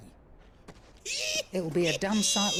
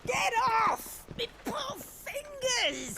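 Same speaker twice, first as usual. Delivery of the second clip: pained complaint; 14 semitones higher, slower than usual. Acted. Old woman crushed in a hug.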